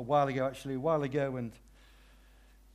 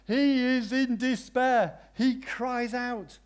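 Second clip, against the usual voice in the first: high, emphatic, slow telling; intense narration; 8 semitones higher, 4 dB louder, slower than usual. Acted. Preacher dramatizing the man's despair, high and intense. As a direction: press the despair home.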